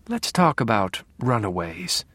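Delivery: calm predator asking nicely; gentle cold voice. Acted. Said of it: "the dark passenger's gentle, cold voice".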